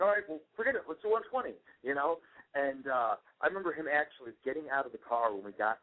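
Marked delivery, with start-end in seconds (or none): 0.0-1.5 sarcastic surrender. Retold or imitated. Father giving up, retold.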